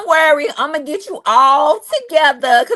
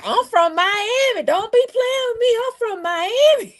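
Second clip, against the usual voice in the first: a feisty Miami mother-in-law voice; sassy mother-in-law; 11 semitones higher than usual. Retold or imitated. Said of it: "She gonna be like".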